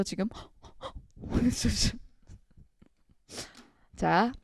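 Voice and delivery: usual speaking voice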